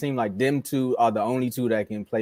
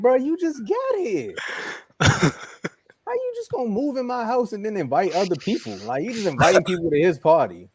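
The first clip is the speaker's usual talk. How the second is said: annoyed Luka; 8 semitones higher than usual. Retold or imitated. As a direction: complain as the annoyed host of the house. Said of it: "Luka like".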